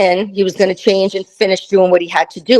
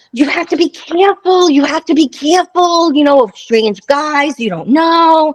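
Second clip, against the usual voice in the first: higher-pitched mock warning; imitated nagging friends; 6 semitones higher than usual. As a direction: mimic friends who always warn you. Voices friends' repeated warning.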